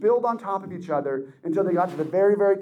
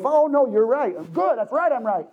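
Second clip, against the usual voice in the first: mock gloating agreement; 4 semitones higher than usual. Mocking arguer who wants agreement.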